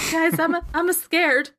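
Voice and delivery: high whiny scaredy-cat whimper; trembling whiny yelps. Acted. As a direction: whine it like a frightened kid. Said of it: "your scaredy cat friend".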